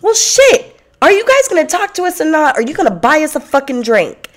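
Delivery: high, loud mock confrontation; exasperated outburst. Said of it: "I really wanted to turn around and say".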